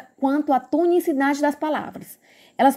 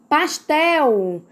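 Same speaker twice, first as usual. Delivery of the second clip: "Pastel" with a long, strong TEL; stress on final syllable; 2 semitones higher than usual. Shown as a demonstration. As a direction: lean on the last syllable of "Pastel". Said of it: "Qual é a sílaba mais forte". ("Pastel" com força no TEL)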